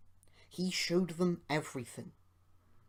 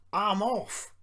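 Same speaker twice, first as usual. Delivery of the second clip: higher, louder yelp; alarmed cry; 6 semitones higher, 6 dB louder than usual. A narrator's reading. Duncan falling off the line, alarmed.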